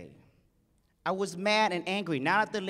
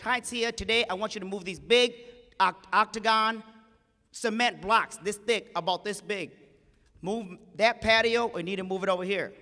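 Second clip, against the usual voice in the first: lady's request; 3 semitones higher, 5 dB louder than usual. Retold or imitated. Rich lady voiced in story.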